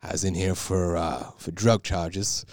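imitating a very nasal guy. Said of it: "the most nasally voice ever".

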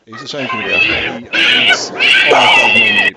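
very high, loud mock Liverpool voice; Scouse impression. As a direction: squeal it out like an over-the-top Scouser. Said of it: "your stereotypical, uh, Scouser".

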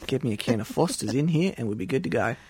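exaggerated Aussie twang; Australian accent. Asking for Foster's in the bit, mock Australian accent. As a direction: play a stereotypical Australian. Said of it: "episode in Australian accent".

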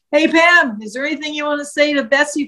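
reporter yelling out. Retold or imitated. Reporter calls to Pam in the parking lot, mock yell. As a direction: call out across the parking lot. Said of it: "yelling out".

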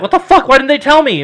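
high, indignant protest; retold outrage. Complaining to paramedics about not being told, retold outrage. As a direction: protest in acted-out disbelief.

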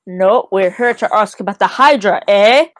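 lightly mock his Canadian way of talking; mocking Canadian accent. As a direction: mimic the Canadian bartender's "eh". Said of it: "mocking me, eh?".

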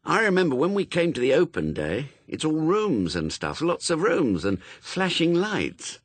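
put-on high-pitched child recalling something; doubtful young boy. A narrator's reading. Child Brian voiced in story.

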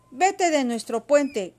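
slow, loud, high command; shouting. A narrator's reading. Pili and Milo order the beast away, shouting. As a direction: drive it off with a drawn-out yell. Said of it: "gritaron al unísono Pili y Milo".

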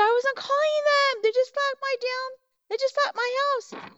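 very high squeaky whine; retold self-defence in a high wail; upset protest. Retelling her upset defence to friend.

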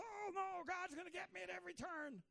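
high panicky mock worry; a hint of a scared believer; mock fear. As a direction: parody a frightened believer. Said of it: "please don't think of it as".

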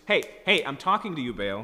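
hammed-up shout to get Baal's attention; mock shout. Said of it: "if you just say it louder".

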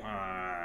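groan. Retold or imitated. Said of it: "he groans".

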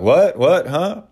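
high startled what-what-huh; baffled players. Retold or imitated. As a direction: play the players thrown by the question.

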